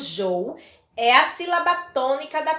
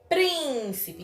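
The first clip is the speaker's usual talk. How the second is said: "Príncipe" quicker, PRÍN still held; stress on PRÍN; 3 semitones higher, 4 dB quieter than usual. Shown as a demonstration. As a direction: lean on the first syllable of "Príncipe". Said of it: "é a antepenúltima sílaba mais forte". ("Príncipe" destacando o PRÍN)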